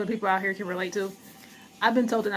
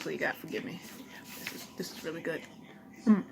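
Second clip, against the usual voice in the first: talking while chewing; words around a bite of food; mouth full; 3 semitones lower, 5 dB quieter than usual. Real, not acted. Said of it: "I'm eating some food".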